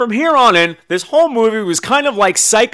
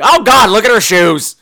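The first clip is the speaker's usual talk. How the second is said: high, wailing shriek over shoes; Bradford; 9 semitones higher, 4 dB louder than usual. Acted. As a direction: exclaim in hammed-up dismay, high. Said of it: "Bradford just keeps going".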